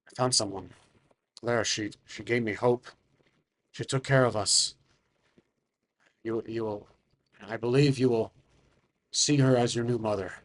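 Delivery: understated heartfelt confession; earnest father. Acted. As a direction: confide gently, with hesitant pauses. Game master plays the father.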